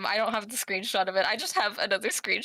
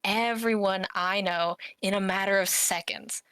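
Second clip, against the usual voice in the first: mock tough guy. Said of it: "so he said to me".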